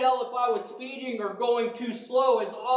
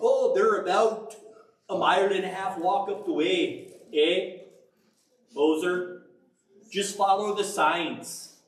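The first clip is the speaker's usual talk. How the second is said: a hint of Canadian, barely put on; half-hearted Canadian accent; 4 semitones lower than usual. Hotel clerk gives the tourist directions, lightly Canadian accent. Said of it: "I can't do a Canadian accent".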